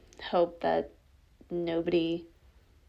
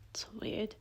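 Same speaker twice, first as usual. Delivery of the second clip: hushed remark; 3 semitones higher, 12 dB quieter than usual. Acted. Examining a found object.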